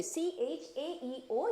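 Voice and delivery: letters drawn out very slowly; slow spelling. Shown as a demonstration. Teacher stressing the tricky letters to remember. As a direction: spell it out one letter at a time. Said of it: "ये ध्यान रखना है".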